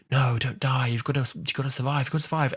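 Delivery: lightly voiced woman urging him on; a distant voice pleading with him; pleading woman's voice. Imagined Susan calling to the Doctor in space, lightly pleading. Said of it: "a voice of a woman while the Doctor's in space".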